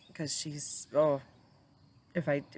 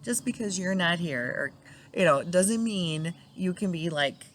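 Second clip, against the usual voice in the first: mock scolding; 3 dB louder than usual. Scolding late husband, laughing.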